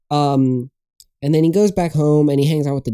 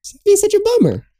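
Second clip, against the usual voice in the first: high loud playful yell; 3 dB louder than usual. Real, not acted. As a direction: bark it out teasingly. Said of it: "I just yelled".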